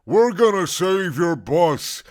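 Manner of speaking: loud, slow, gleeful squeal; happy squeal. Acted. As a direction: squeal it with glee. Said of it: "she squealed happily".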